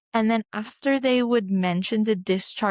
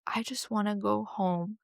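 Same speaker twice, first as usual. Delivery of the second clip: softer, teary-voiced plea to go home; a mild hint of retold crying; tearful plea; 2 semitones higher, 5 dB quieter than usual. Worn-out mother begging the midwife to let her leave, tearful. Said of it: "And I just started crying".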